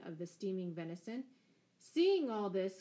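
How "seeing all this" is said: slow, loud, serene resumption. A narrator's reading. Scarlet resumes the christening after interruption, slow and serene. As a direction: carry on slowly, untroubled by the interruption. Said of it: "continued Scarlet serenely".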